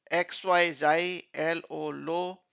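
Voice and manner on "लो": "लो" as a separate syllable; teacher isolating "लो"; sounded-out syllable. Shown as a demonstration. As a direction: say लो alone as one word part. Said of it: "छोटे-छोटे parts में उसको".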